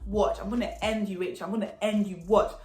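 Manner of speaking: softly imitated menace. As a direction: imitate her threat under your voice. Imitates the girl's threat.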